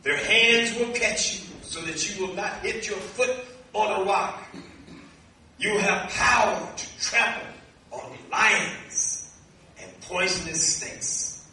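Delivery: slow, measured scripture reading with pauses. Acted. Preacher reading God's promise to the congregation, measured scripture reading. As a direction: read it out deliberately, phrase by phrase.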